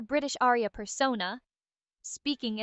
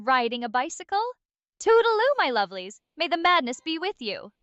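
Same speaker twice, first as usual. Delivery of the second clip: higher, manic British sign-off; rising pitch; 4 semitones higher than usual. Acted. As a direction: climb higher with manic glee. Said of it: "cackle maniacally, her voice rising in pitch".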